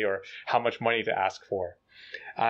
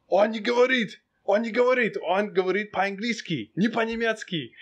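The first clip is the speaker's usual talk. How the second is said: high, strained complaint in Russian; exasperated officer; 9 semitones higher than usual. Retold or imitated. Officer complains to the translator on the phone, imitated high and exasperated. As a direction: protest down the phone, pitched way up.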